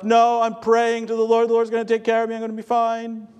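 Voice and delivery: high, loud mock shout up to the helicopter; retold shout. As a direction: call it up high and loud, as if over rotor noise. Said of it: "And he shouts up".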